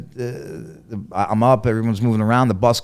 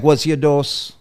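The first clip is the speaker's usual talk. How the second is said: higher-pitched imitated Jamaican nurse; 6 semitones higher, 5 dB louder, slower than usual. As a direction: imitate a Jamaican woman asking. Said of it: "my nurse was this Jamaican lady".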